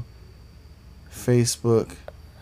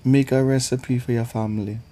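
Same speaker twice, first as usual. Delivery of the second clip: put-on Southern accent; 2 semitones higher than usual. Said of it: "I had to give y'all the accent".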